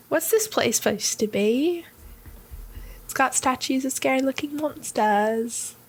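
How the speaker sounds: put-on British accent. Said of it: "That's how Grim sounds in my brain".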